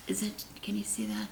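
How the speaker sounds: breathy aside to the viewers; hushed question; whisper. Real, not acted. Asks viewers quietly.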